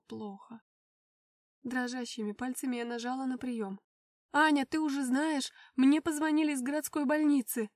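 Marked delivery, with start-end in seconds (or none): 4.3-7.7 loud, high, near-screaming; voice breaking into a shout. Acted. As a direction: godmother on the verge of yelling. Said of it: "Голос крестной срывался на крик". (крестная почти кричит в трубку)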